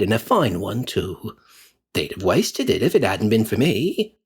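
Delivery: lightly voiced coarse charwoman, dismissive; a hint of a scornful old woman. Charwoman boasts of her haul.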